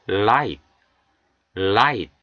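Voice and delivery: light with tongue tip tapping the palate; tapped l demo. Shown as a demonstration. Teacher modelling light with tapped l. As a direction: tap the l in light. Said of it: "혀 끝을 입천장을 탁 치시면서".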